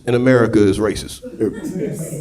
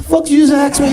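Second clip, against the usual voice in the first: much higher indignant yell; how dare you ask me that; offended yell; 14 semitones higher than usual. Retold or imitated. Stepfather answering his stepson, offended yell. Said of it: "I said".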